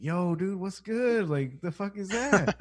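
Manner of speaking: slipped-out ghetto talk. Retold or imitated. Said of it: "it just fucking slipped".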